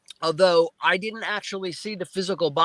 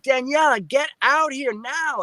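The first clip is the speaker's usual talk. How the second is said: calling out; 8 semitones higher than usual. Retold or imitated. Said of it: "I scream for my wife".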